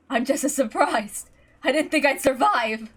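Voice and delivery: Ava's voice. Acted. Ava voiced in story.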